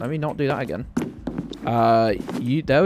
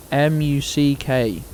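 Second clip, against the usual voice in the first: spelled slowly; 3 dB louder, slower than usual. Shown as a demonstration. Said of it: "spelling out the pun".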